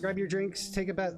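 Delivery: talking with tongue out; tongue sticking out. Real, not acted. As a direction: speak with tongue stuck out. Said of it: "My tongue is sticking out".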